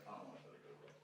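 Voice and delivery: low, very soft grumble; reluctant refusal. Acted. Buddy with girlfriend objects to the outing, low and reluctant. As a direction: drop low and small, not into it.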